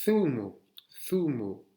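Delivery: Zumo said thumo. Shown as a demonstration. Teacher modelling Zumo with th. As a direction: Zumo with tongue between teeth. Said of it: "Le Z, th".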